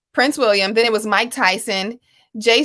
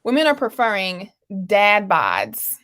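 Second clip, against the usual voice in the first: newscaster voice; 2 semitones lower than usual. Acted. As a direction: read it like a headline. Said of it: "my newscaster voice".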